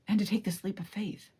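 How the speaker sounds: choked-up whisper; moved almost to tears, whispering; getting emotional. Real, not acted. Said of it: "Wow, I'm getting emotional here".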